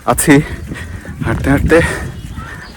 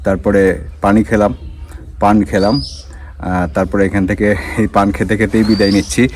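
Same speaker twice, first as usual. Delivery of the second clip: mouth full; 3 semitones lower, 3 dB quieter than usual. Real, not acted. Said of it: "মুখে পান দিয়েছি".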